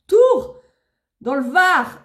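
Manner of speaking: high, loud shout of the town; excited call-out. Real, not acted. Streamer spotting another town in chat, excited call-out. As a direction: call it out like a roll call. Calling out viewers' towns read live.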